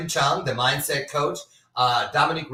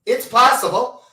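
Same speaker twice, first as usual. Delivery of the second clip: excited exclaim; 11 semitones higher, 10 dB louder than usual. Real, not acted. Host's hopeful exclamation about longevity.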